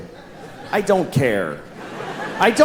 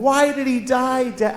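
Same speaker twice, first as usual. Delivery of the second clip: put-on higher, slow little girl voice; child asking; 7 semitones higher than usual. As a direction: ask it like a sad little kid. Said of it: "my daughter comes home".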